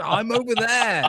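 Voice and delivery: a retold prank line, drawn out slowly up high; deadpan creepy guard. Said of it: "I was like".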